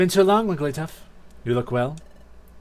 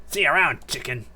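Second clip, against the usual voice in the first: parting taunt. Acted. Bully's parting jeer.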